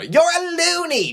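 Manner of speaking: high, drawn-out mocking cry; cackly, jeering outburst; cackling outburst. A narrator's reading. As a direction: burst out in high-pitched glee. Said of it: "James burst out with a cackle".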